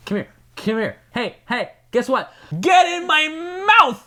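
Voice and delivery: coaxing then loud "get in my mouth"; luring plant. Retold or imitated. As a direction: lure her, then pounce.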